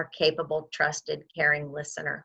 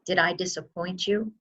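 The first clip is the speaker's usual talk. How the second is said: calm acknowledging. Shown as a demonstration. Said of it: "you wanna say that".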